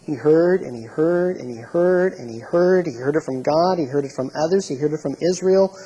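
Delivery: "heard" hit in every repeated phrase; insistent repetition leaning on "heard"; stress on HEARD. Shown as a demonstration. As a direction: hammer the word "heard" like a list. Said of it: "emphasis on the word "hear".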